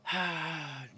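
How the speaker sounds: long soft falling sigh; drawn-out exhale. Real, not acted. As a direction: let out a long, quiet sigh. Sighs alone while playing.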